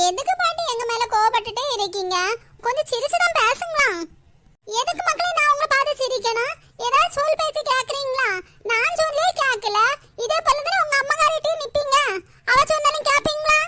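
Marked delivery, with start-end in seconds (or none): 4.8-13.6 cross grandmother. Acted. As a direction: snap at the grandkids who never listen. Grandmother keeps scolding. (கோபமான பாட்டி குரல்)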